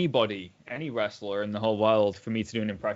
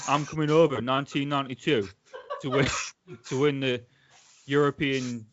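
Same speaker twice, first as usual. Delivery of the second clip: put-on Manchester accent. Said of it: "a guy from Hull doing a Manchester accent".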